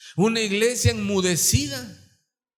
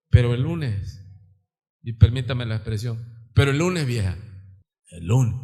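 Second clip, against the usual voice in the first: put-on drunk husband; 10 semitones lower than usual. Alcohólico responde a su esposa.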